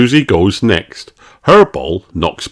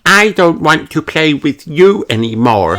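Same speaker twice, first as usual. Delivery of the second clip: put-on high sulky child voice; sulky refusal; 8 semitones higher than usual. A narrator's reading. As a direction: pout and refuse to play. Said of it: "says Susie".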